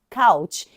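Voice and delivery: "couch" said slowly and clearly, like "cowch", not "coach"; clear model word. Shown as a demonstration. Teacher modelling "couch" for students, slow and clear. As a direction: spell out "couch" slowly for learners. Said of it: "we say".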